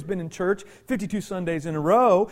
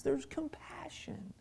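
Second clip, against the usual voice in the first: hushed; 3 semitones higher, 16 dB quieter, slower than usual. Real, not acted. Sermon point after the story.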